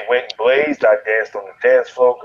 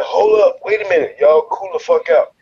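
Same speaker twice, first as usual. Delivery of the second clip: raised, tense plea; 6 semitones higher than usual. Retold or imitated. Retold bar fight, calling down.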